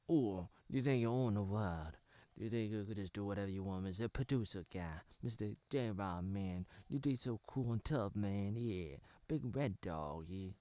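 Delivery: slightly low, put-on gangster swagger; mock tough guy, lightly voiced; cool gangster act. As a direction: play a would-be gangster acting cool. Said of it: "trying to act all, like, cool, like a gangster".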